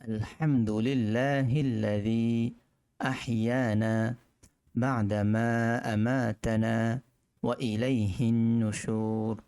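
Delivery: slow, deliberate Arabic recitation. Shown as a demonstration. Teacher recites the waking dua slowly for students. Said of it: "আবার বলছি".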